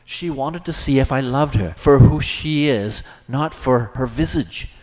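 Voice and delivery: high, loud, increasingly certain; emphatic theatrical certainty; growing conviction. A narrator's reading. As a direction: declare it with mounting conviction, pitched high. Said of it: "began to grow in certainty and conviction".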